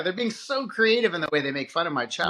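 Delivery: mock admiration, leaning on "so creative"; tongue-in-cheek parental pride; sarcastic praise. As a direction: gush like a parent, but don't mean it. Ironic praise, then "said no one ever.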